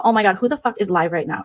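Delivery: usual speaking voice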